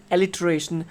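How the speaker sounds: "alliteration" said as "el-i-tuh-RAY-shun"; pronunciation demo. Shown as a demonstration. Teacher pronouncing it after spelling it, "alliteration" as "el-i-tuh-RAY-shun". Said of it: "It is pronounced as".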